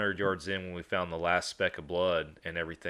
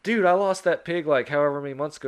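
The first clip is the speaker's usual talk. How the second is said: high, loud hammed-up buddy; mock buddy voice; 8 semitones higher, 6 dB louder, faster than usual. Neighbor admitting the lost pig, hammed-up loud and high. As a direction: play the friend loud and high, laughing it off. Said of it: "He's like".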